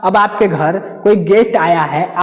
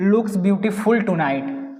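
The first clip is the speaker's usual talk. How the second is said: slow question read; much slower than usual. Shown as a demonstration. Reads answer slowly.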